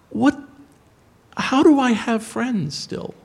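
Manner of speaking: high, drawn-out tearful imitation; mock-weepy, stretched-out wail; imitated crying. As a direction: act out a friend in tears, slow and high. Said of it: "and he's crying".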